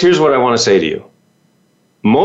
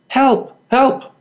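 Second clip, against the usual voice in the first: mock cry for help; 13 semitones higher than usual. Drowning person calling out.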